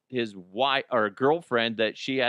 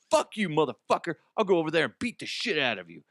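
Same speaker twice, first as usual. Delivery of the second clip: higher-pitched imitation of a threat; mock angry threat; 4 semitones higher, faster than usual. Boyfriend threatening clerk over olives, mock angry outburst. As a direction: spit out the threat, speeding up.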